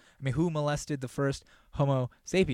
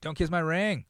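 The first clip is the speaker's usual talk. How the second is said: emphatic Pope; 5 semitones higher than usual. Retold or imitated. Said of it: "He was really emphatic about it".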